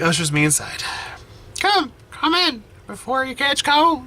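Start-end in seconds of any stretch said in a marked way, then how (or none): 1.6-4.0 put-on high, slow old granny voice; a frail old grandmother, tender and teary; grandma voice. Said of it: "I lost the grandma voice".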